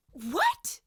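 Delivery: put-on boy squeaks in shock at the girl's words, high and loud. A narrator's reading. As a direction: let the voice jump up into a yelp. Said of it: "James's voice leapt about two octaves higher".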